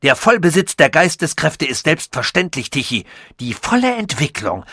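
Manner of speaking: lightly voiced, pleased with his own genius; proud scientist voice. Sasul boasts to Tichy, lightly voiced proud inventor.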